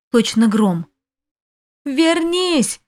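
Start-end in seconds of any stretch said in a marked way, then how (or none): 1.8-2.8 much higher desperate call; a high, anguished plea to return; crying out. A narrator's reading. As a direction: call after him in despair. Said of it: "кричала я".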